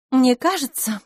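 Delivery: бодро и весело; лёгкая радость в голосе. A narrator's reading. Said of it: "сказала она весело". (весело, с улыбкой)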